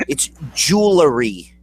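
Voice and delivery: "jewelry" as "jool-uh-ree"; correct jewelry. Shown as a demonstration. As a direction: stretch JEWELRY, keeping the L. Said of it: "not jewelry".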